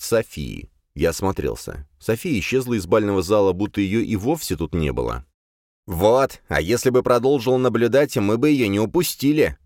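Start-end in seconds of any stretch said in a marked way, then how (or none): 5.9-9.6 higher, louder lamenting demon; whining fire demon. A narrator's reading. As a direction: voice the demon complaining. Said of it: "запричитал демон".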